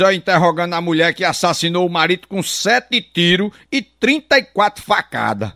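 usual speaking voice

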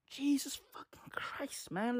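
breathless whispered curse; exasperated whisper. Real, not acted. Fed up with Eskom, exasperated whisper. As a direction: let the curse out under your breath.

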